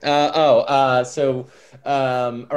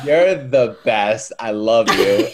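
louder, slow, through laughter; a bit louder, slow, laughing; 6 dB louder than usual. Retold or imitated. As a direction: gush it while cracking up. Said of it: "I was like".

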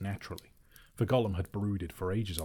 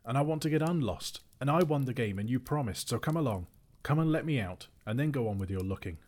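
high, insistent protest; raised, exasperated voice; crying out; 6 semitones higher, 3 dB louder than usual. A narrator's reading. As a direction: call out demanding to be let go. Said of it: "cried Bilbo".

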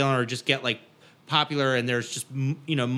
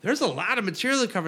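fast, higher worried voice; hurried, fretting about the schedule; anxious bandmate; 5 semitones higher than usual. Retold or imitated.

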